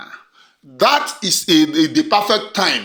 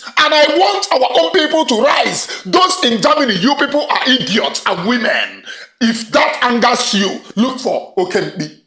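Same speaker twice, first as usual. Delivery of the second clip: much higher and louder, shouting at the crowd; rallying shout; 8 semitones higher, 3 dB louder than usual. Real, not acted. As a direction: call your people to rise at full voice. Rallying supporters, insulting opponents.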